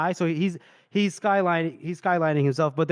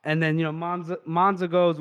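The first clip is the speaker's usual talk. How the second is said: ordinary talk, nothing marked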